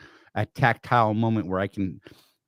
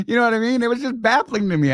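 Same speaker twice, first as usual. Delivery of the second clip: high, laughter-strained voice; laughing while talking; 12 semitones higher, 4 dB louder than usual. Real, not acted. Storyteller still amused by the baffling private, laughing. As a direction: talk through the tail of a laugh.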